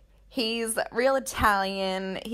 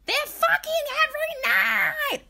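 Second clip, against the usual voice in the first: much higher, louder yelled outburst; gleeful shout; 5 dB louder than usual. Acted. Host voicing what everyone's thinking about the couple, shouted. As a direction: shout it out as the scandalous group thought.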